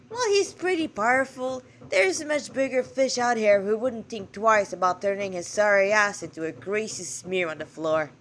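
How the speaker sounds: put-on a self-admittedly poor Irish accent; failing Irish accent. God warning the girl of a bigger threat, in a failing Irish accent. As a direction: try an Irish accent and fall short. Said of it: "I'm trying to do this Irish accent".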